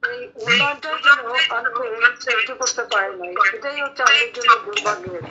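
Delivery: heavy echo from the room. Real, not acted. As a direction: voice echoing on the call line. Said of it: "এখানে ইকো হচ্ছে".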